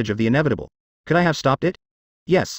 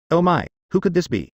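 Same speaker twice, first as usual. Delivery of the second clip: cheerful; 5 semitones higher than usual. A narrator's reading. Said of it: "I cheerfully answered".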